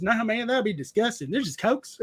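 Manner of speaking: lightly voiced Southern uncle; imitated Southern uncle. Uncle correcting the nephew, imitated Southern accent. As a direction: wave it away with a Southern twang. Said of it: "that's how he talks".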